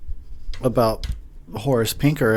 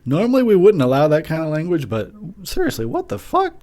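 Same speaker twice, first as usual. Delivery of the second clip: parents' voice; 5 semitones higher than usual. Retold or imitated. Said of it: "They said".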